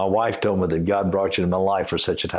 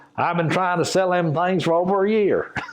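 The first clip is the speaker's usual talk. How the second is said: very high-pitched put-on Appalachian accent; 10 semitones higher than usual. Retelling a phone call with a seller of logs, in an appalachian accent. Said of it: "he says an Appalachian accent".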